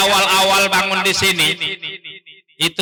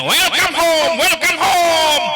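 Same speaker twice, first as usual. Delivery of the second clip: high, drawn-out calling greeting; demonstrated greeting; 8 semitones higher, 4 dB louder, much slower than usual. Shown as a demonstration. Teacher showing parents how to greet children in English, high calling greeting. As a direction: call it out big for children to copy. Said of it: "Nah, kalau sama anak ini".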